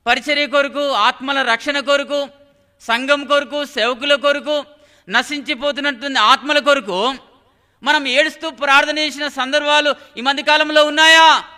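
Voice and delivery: rhythmic list building to a challenge; insistent preaching. Real, not acted. Preacher asking believers if they wept in prayer, insistent preaching. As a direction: pile up each phrase, then drive the question home.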